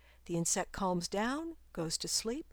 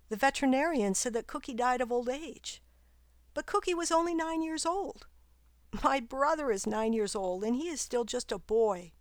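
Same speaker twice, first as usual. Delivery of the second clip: lightly voiced girl, puzzled and hurt; a hint of a girl asking why her dog died; higher girl voice, confused and sad; upset young girl; 4 semitones higher, 3 dB louder than usual. Girl pleads about her dog.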